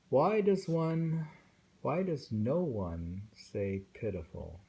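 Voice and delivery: slow, lifted recital of a lament; plaintive poem recital. Acted. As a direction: voice the longing line by line. Reciting a lonely love poem.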